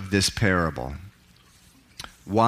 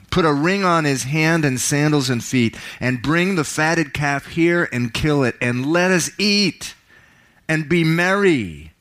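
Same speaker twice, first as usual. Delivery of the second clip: joyful father; 3 semitones higher than usual. Acted. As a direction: let the father's joy burst out. Father joyfully orders feast.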